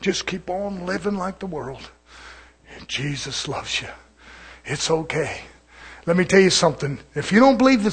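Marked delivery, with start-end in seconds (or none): 0.0-5.4 Satan. Retold or imitated. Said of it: "'Cause Satan will say".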